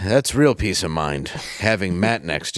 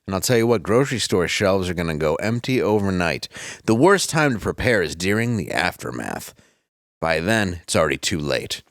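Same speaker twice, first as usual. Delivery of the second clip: hammed-up sponsor pitch; ad read; 2 semitones lower than usual. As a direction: sell it like a cheesy radio ad. Reads sponsor ad copy.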